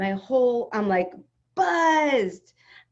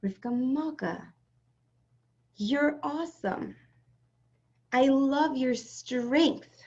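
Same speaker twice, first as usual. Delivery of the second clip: higher, slow loving praise; divine inner voice; 5 semitones higher, slower than usual. Retold or imitated. God's voice praising Rivka Malka, warm and slow. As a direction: speak as a tender inner voice. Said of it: "I heard Hashem saying to me".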